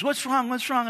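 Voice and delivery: mom's anxious high question; worried mom. Retold or imitated. Mom asking her crying son what's wrong. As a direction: voice the worried mother. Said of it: "And she goes".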